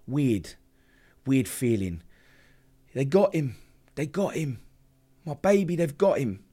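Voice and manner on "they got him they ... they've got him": raised voice, relaying her panic on the phone; retold distraught cry. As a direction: imitate a mother's distraught call. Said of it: "She's screaming down the phone, crying, screaming".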